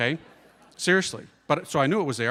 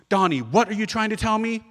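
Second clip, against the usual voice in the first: mad mom; 4 semitones higher than usual. Retold or imitated. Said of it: "and she got mad".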